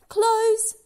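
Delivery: high, loud one-word order; magic command. Acted. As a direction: order the door shut.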